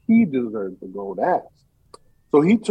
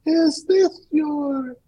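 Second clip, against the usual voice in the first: much higher, very slow angel voice; 13 semitones higher, much slower than usual. Acted. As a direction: stretch it out like a gentle otherworldly angel. Angel offers gold axe.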